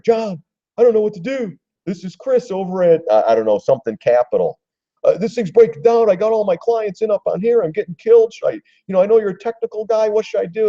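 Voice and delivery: high, frantic broker begging for help; panicked broker. Retold or imitated. Broker calling John in a panic, high and frantic. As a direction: squeak it out like a broker losing his clients' money.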